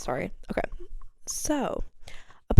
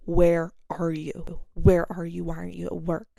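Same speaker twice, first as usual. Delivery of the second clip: demanding boss; 3 dB louder than usual. Retold or imitated. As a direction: imitate the boss calling, annoyed. Manager calling, demanding.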